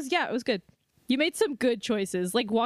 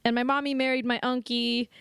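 put-on whiny teen Hamlet; slower than usual. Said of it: "sums up, like".

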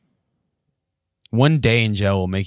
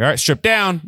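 barking guard; 10 semitones higher, 6 dB louder than usual. Retold or imitated. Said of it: "they're like".

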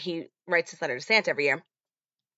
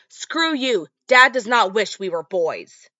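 angry yell; 2 semitones higher, 5 dB louder, slower than usual. Retold or imitated. Cousin yells at Max.

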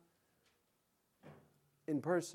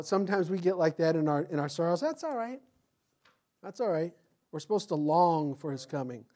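ordinary delivery

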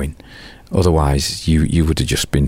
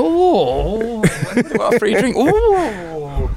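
high, dreamy voice, instantly diverted; distracted musician; 14 semitones higher, slower than usual. Musician forgetting the money for a free drink, high and dreamy. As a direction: drift off happily at the offer. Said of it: "And you go".

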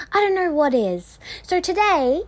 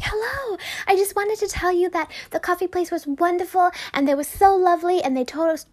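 gushing tourist; 4 semitones higher than usual. Retold or imitated. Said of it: "she came in and she was like".

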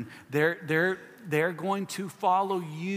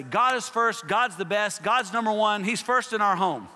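mock pious parent; 4 semitones higher than usual. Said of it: "you would sit down and say".

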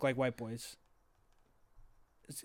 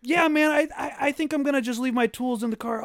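high, loud, nervous backing down; 8 semitones higher, 3 dB louder than usual. Retold or imitated. First day at school, telling the tattooed guy he'll leave his tools: nervous. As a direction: squeak out a nervous excuse to the tattooed stranger.

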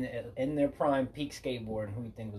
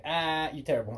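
retold heckle, pitched up a bit; playful taunt, lightly raised; mock jeer; 4 semitones higher than usual. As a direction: jeer at a botched trick. Retold jeer at skater's miss.

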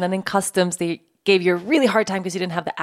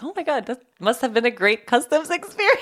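higher, amused gush with a laugh; laughing mock delight; 6 semitones higher than usual. Friend teasing about the great customs experience, laughing. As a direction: tease her through a laugh. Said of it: "I was like".

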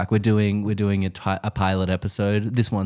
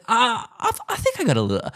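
Abraham Lincoln; 4 semitones higher than usual. Retold or imitated. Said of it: "That's my, uh, Abraham Lincoln".

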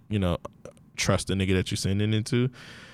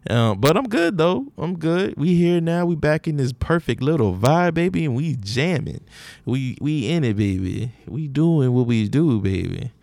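put-on New Orleans accent; 4 semitones higher than usual. Podcast host greeting listeners in a New Orleans accent. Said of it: "I keep doing this New Orleans accent".

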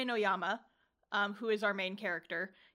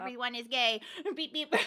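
robot voice; 2 semitones higher than usual. Pretend. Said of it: "That was my impression of you".

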